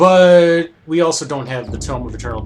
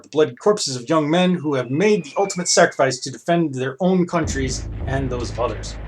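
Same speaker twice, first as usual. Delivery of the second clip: measured read-aloud of game text; story narration. Acted. Player reads the guard scene aloud, narrating.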